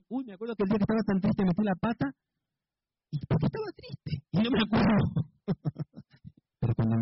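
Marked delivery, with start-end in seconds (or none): 3.1-4.1 much higher, softer mock-puzzled question; puzzled self-question. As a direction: ask it like you honestly can't remember why.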